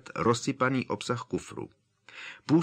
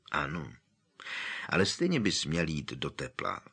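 softer, calm persuading; coaxing; 4 semitones lower, 5 dB quieter than usual. Acted. Tonks coaxes Harry to go inside, soft and calm. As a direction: talk him round gently. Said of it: "domlouvala mu Tonksová".

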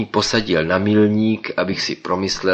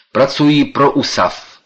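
loud, high shout while riding; 7 semitones higher, 7 dB louder than usual. Acted. Professor shouts over the wind, loud and high. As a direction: yell it over the pedalling. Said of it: "křikl profesor".

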